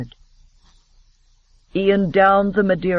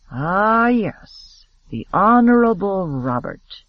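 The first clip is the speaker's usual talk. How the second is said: mock the word "Honorable" with a pointed stress; sarcastic emphasis; 3 semitones higher, slower than usual. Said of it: "putting sarcastic emphasis on the word honorable".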